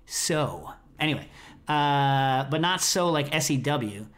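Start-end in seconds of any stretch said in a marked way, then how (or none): 0.1-0.7 lower, tentative Australian "so"; half-hearted try at an Australian "so"; attempted Australian accent. Shown as a demonstration. Host failing at the word they can't imitate, Australian accent. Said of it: "vowel-based word in an Australian accent".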